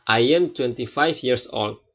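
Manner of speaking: slow, careful English demo; slow classroom model of English; slow model sentence. Shown as a demonstration. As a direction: spell it out slowly for learners. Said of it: "kalau dalam bahasa Inggris".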